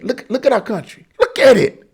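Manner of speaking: high, forceful call to look. Real, not acted. Urging listeners to look.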